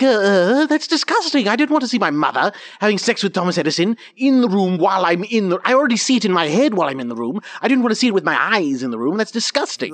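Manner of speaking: high-pitched, revolted protest; disgusted outburst. Acted. Rory protesting about seeing his mother, high and disgusted. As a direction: burst out in appalled disgust, starting loud and high.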